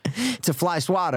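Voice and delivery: SWATTER with open ah, like swat; high, insistent swah-ter for SWATTER; corrective pronunciation. Shown as a demonstration. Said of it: "Like swat".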